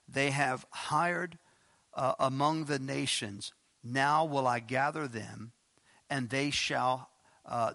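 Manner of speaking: slow, weighty reading of the verse; scripture reading. Acted. Preacher reads Hosea to the congregation, slow and solemn. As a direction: read it out slowly, with weight.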